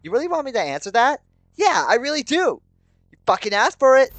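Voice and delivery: high, loud, escalating fury; white-hot rage. A narrator's reading. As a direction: explode in a furious tirade. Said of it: "My anger turns to the white-hot burning rage".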